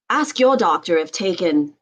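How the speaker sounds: lightly put-on British commercial voice; British accent. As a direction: read the drug-ad line with a touch of British. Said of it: "did that with a British accent".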